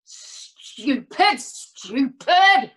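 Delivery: drawn-out, building outburst; frustrated self-reproach. Acted. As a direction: berate yourself, second word harder.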